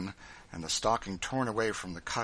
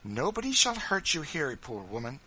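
encouraging; 6 semitones higher, 4 dB louder than usual. Acted. Missus Bird to the frightened woman, encouraging. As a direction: start high and firm, then ease off. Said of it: "said Missus Bird encouragingly".

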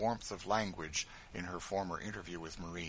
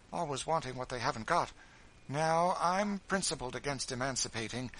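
higher, fussy lady's voice; a self-absorbed widow airing her plans; spoiled lady complaining of her arrangements; fretful mistress; 5 semitones higher, 4 dB louder than usual. Acted. Marie's tirade voiced.

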